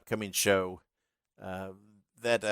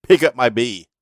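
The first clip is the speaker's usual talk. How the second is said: louder, mock-angry barking of the demand; retold angry yell; 3 semitones higher, 12 dB louder than usual. Wrestler at the ropes snapping at his manager, mock-angry. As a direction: bark it like a wrestler ordering his manager around. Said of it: "like he's all angry at me".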